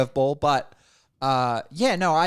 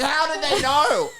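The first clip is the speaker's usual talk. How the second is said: high, slow bewildered whine; 12 semitones higher, 4 dB louder than usual. Retold or imitated. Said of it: "I was like".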